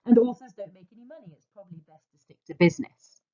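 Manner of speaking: fast, brisk voice of common sense; quick, matter-of-fact inner voice giving business advice. Acted. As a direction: rattle it off like a practical know-it-all. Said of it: "said common sense".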